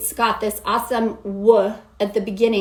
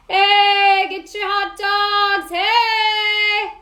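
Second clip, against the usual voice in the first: much higher, louder sung hawker cry; ballpark vendor call; 10 semitones higher, 4 dB louder, much slower than usual. Shown as a demonstration. Coach imitating the ballpark concession guy, high and loud. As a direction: sing out hot dogs like a stadium vendor. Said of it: "the concession guy's voice at the ballpark".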